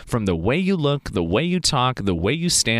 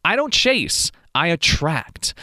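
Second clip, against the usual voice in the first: fired-up repeat; 2 semitones higher, slower than usual. Shown as a demonstration. Hyped repeat of his affirmation to the viewer, emphatic. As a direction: hit "I don't chase" hard and bright. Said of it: "That is powerful".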